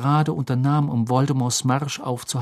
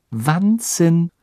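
exuberant; 5 semitones higher, 4 dB louder than usual. Acted. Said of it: "sagte Hermine ausgelassen".

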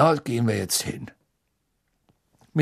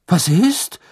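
innocent tone; 7 semitones higher, 6 dB louder than usual. A narrator's reading. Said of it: "in einem Unschuldston".

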